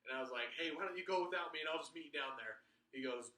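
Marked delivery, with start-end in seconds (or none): 0.5-2.6 panicky bargaining. Retold or imitated. Panicked bargaining at plane door.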